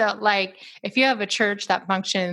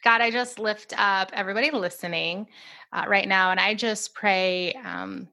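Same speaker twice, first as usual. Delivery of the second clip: earnest spoken prayer; gentle intercessory prayer. Acted. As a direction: pray over the listeners steadily. Leads a closing prayer.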